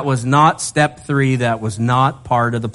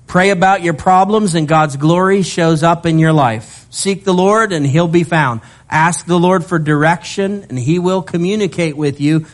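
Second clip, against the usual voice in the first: fervent preaching; 4 semitones higher than usual. Real, not acted. Preaching with rising fervour.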